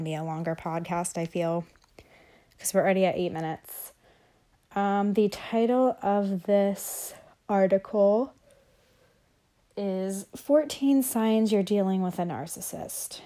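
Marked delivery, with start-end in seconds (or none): 4.7-13.2 reading slowly between heavy breaths; audible heavy breathing while reading; breathing heavily. Real, not acted. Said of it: "I feel like I'm breathing so heavy".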